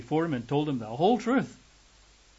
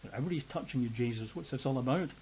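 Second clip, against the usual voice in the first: muttering disciples; 5 dB quieter, faster than usual. Acted. Disciples mutter, scratching their heads.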